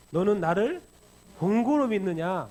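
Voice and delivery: a stern Lord's question; Jesus reproving. Acted. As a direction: press the question home slowly. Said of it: "뭐라 그래요?".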